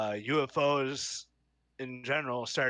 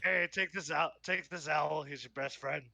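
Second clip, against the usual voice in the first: Rick Sanchez voice; 2 semitones higher than usual. Retold or imitated. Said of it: "a Rick and Morty kind of feel".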